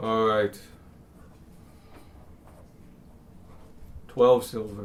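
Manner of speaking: very deep, blunt, simple-sounding voice. Describing a character, then voicing him in a very deep, simple voice. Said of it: "he's got a very deep voice and like is doing simple sentences".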